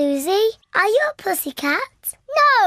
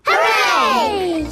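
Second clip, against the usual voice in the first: loud happy cheer; 3 semitones higher, 4 dB louder than usual. Acted. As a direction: shout it out with joy. Children cheer for balloons.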